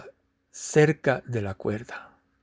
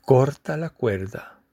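calm voice of God. Acted. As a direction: speak as God, calm and patient, letting each word land. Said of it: "con calma".

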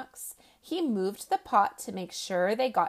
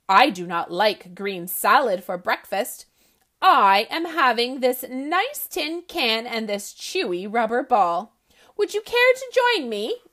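host offering his tin can breakfast; polite Goat; 4 dB louder than usual. Acted.

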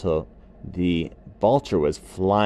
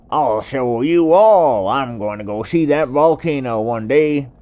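louder, higher defiant iguana voice; determined iguana; 6 semitones higher, 7 dB louder than usual. Acted.

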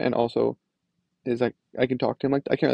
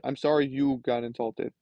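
mock fake apology; 3 dB quieter, slower than usual.

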